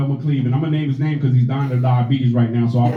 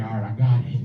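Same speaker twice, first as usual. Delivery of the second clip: put-on determined kid; 7 semitones lower, 4 dB quieter than usual. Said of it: "was like".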